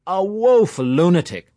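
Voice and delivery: a hint of teasing mockery, slowed; mock outrage, playful; lightly voiced jester. A narrator's reading. Mulligan teasing Stephen about his name, light mock scorn.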